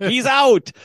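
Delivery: high, loud mock umpire call; sung-out, high-pitched call; umpire's out call. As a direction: imitate an umpire calling the play. Acts umpire calling the out.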